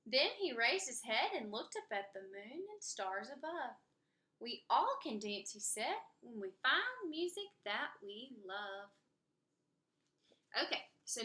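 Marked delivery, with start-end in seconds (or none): 0.0-8.9 lively picture-book read-aloud with character voices; story narration. Acted. Reading a rhyming story aloud to kids, lively narration. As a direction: read it to children, bouncy and rhymed.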